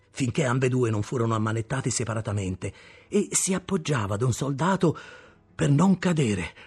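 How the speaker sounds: plain reading voice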